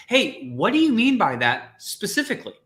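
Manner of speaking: curious, lifted ask; probing question. Shown as a demonstration. Coach asking a client for specifics, curious. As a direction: press gently for specifics. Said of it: "What are some questions I probably wanna ask Christina?".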